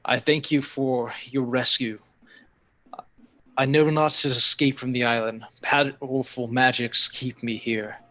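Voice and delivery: slow, lightly voiced mystical being; measured, otherworldly creature voice; telepathic creature. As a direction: speak slowly into their minds. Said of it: "speaks into the minds of each of you".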